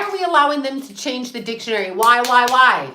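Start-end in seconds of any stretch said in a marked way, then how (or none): 1.9-2.9 louder with each why, real exasperation; loud demanding why. Real, not acted. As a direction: hammer the question home, loud. Ranting about censorship, peak.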